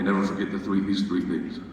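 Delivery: low, soft motherly lecture; a gentle mom listing her rules, softly; mother's advice. Retold or imitated. Mother passing life rules to her son, soft and low. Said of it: "my mother told me".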